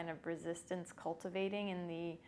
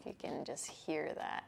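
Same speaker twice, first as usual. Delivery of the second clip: ocean throat breathing. Shown as a demonstration. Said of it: "place it at the base of my throat".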